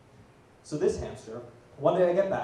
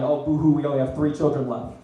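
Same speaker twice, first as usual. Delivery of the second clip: louder, badly faked boo-hoo; mock crying; 5 dB louder than usual. Parents mourning son's faked death, mock crying. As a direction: play at grieving without real tears. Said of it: "My parents are gonna be crying".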